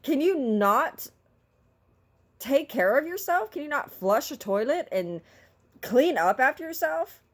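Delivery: loud complaint. Retold or imitated. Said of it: "I'm a very vocal person".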